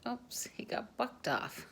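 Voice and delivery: breathy whisper, high; whispered oops. Real, not acted. Narrator whispering as the boy falls off. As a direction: hush it out like a quiet aside. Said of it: "whispered aside during film".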